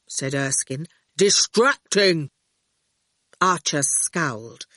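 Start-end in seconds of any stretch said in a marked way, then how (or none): 1.2-2.3 slow, heavy, drawn-out words; terse and stubborn, stretching each word; blunt digger driver. A narrator's reading. Erskine's character voice.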